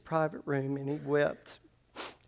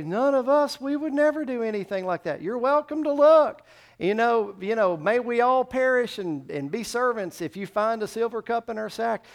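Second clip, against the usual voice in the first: high, loud, acted insistence of innocence; indignant protest; 8 semitones higher, 7 dB louder than usual. Accused brothers answering Joseph's servant, loud indignant protest. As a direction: protest loudly as the wrongly accused.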